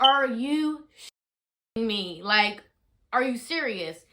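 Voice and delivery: retold exasperation at a sleeping husband; exasperated disbelief. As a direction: drag out the disbelief. Husband falls back asleep.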